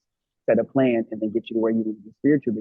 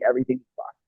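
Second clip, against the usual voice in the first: laughing; 13 semitones higher, 4 dB louder than usual. Acted. Laughing while mock-quoting herself.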